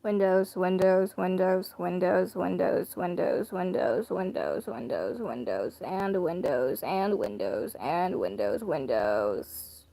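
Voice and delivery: listless repeated "Windows", fading at the end; unenthusiastic. Pretend. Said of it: "in the most unenthusiastic voice".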